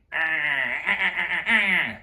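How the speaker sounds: pressed nasal "ah" noises; grating, airless nasal ahs; harsh nasal bleating. Shown as a demonstration. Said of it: "very nasally".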